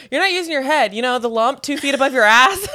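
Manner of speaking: hammed-up movie tirade; mock berating coach. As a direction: berate them, half laughing. Quoting the coach's insult.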